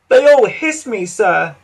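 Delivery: a hurt little sigh of complaint. Acted. Edward sadly telling the Fat Controller the others hiss him. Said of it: "sighed Edward".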